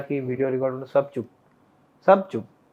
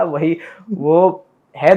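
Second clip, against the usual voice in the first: laughing; 5 dB louder, much slower than usual. Real, not acted. Laughing at viral creators.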